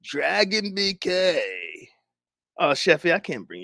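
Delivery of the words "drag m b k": mock Hoodie plea.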